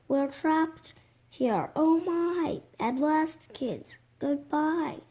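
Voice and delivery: a teacher wailing stranded on an island; panicked scream. Acted. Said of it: "started to scream".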